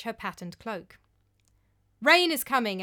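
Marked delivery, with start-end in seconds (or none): 2.0-2.8 loud urgent announcement; announcing loudly. Acted. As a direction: call it out as a warning. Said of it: "announced Thorod".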